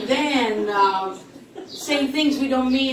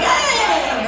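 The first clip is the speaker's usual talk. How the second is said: mock offended; 7 semitones higher, 5 dB louder than usual. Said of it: "I'm like".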